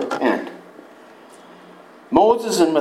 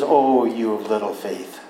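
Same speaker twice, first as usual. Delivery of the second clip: soft rebuke; 5 semitones lower, 3 dB quieter than usual. Retold or imitated. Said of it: "he looked at them and he says".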